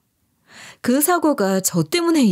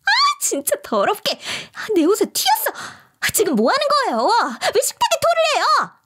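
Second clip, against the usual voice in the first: higher, shrieking annoyance; mock disgusted sister-in-law; disgusted whining; 13 semitones higher than usual. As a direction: recoil and complain about the mess. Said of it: "짜증을 내더라고요".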